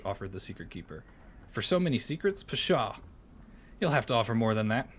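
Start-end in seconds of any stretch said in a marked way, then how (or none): 1.5-4.9 scoffing goblin. Acted. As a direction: scoff at a stingy offer.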